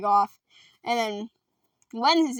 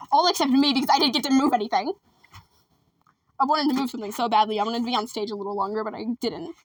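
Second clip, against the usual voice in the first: mock sulking; faster than usual. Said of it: "I'm joking, guys".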